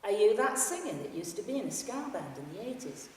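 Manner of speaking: lightly voiced Yorkshire fan; broad Yorkshire accent. Yorkshire fan on the train asks the singer, in a light Yorkshire accent. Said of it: "said loudly in a broad Yorkshire accent".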